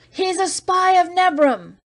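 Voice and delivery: high, slow, ugly accusing shout. A narrator's reading. A voice in the crowd shouts an ugly accusation. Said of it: "it had a very ugly sound".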